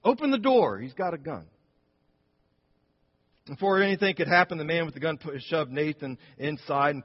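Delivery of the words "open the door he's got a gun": repeated urgent plea. Retold or imitated. Preacher replaying husband's plea to congregation, urgent start. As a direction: replay the frightened plea for emphasis. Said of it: "Did you catch that?".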